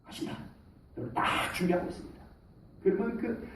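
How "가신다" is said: whispered heads-up; soft urgent whisper; hushed warning. Retold or imitated. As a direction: murmur it like a secret signal. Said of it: "미리 연락이 옵니다".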